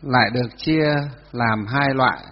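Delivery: slow dictation in separated chunks; dictating. Real, not acted. Teacher to students copying down, dictating. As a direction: leave room for writing between phrases. Dictates next phrase to class.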